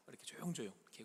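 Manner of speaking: put-on soft hushing like a mother near a sleeping baby; a mother's gentle shushing; hushed mother. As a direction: ease the words out quietly so the baby stays asleep. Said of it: "그 엄마들이".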